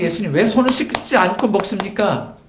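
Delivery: high-pitched, uncomfortable objection; imitating disapproving accusers; acted disapproval. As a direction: question him as a bothered critic, pitched high. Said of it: "그렇게 불편해하는데".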